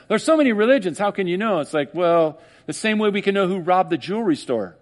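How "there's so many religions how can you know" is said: mocking skeptic. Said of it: "that straw man that says".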